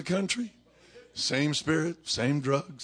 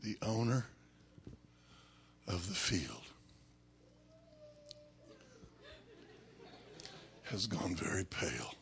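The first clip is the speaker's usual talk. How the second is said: very soft, low, near-whispered narration; hushed suspense; 4 semitones lower, 12 dB quieter than usual. A narrator's reading. Preacher narrating the opening of the lid, hushed suspense. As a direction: spin it out softly with long pauses.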